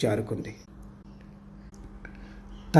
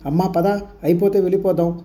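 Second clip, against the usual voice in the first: higher-pitched, lightly voiced call to hurry; mild mock call; 5 semitones higher than usual. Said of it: "అని గట్టిగా అన్నాను".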